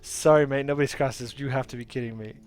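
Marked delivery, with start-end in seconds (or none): 0.0-1.4 loud, hearty bridge-keeper; gruff gnome. Acted. Gnome bridge-keeper refuses the player, hearty and loud. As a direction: boom it out like a stubborn old gnome.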